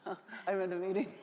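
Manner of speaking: quick, laughing fake excuse to the President; mock phone brush-off. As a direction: rattle it off fast, half laughing, like dodging a call. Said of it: "what does everyone say?".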